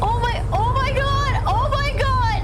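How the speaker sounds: high slow excited shrieks; shrieking jackpot winner. Real, not acted. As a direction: squeal it out in disbelief. Crazy drive, screaming oh my god.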